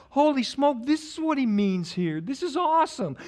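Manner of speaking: high-pitched thrilled realization; retold amazement. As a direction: marvel as if just discovering it. Retold amazed discovery in scripture.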